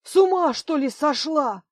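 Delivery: the words drawn out with rage at the end; exploding in anger. Acted. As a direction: blow up at her. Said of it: "он вдруг взорвался".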